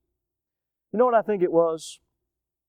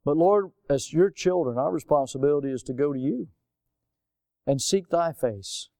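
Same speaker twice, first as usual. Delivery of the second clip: earnest prayer. Real, not acted. Leads a prayer.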